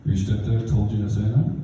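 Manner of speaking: low principal voice; lightly voiced adult, questioning low; incredulous principal. Principal questioning the boy about his stepdad, incredulously. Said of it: "He's like".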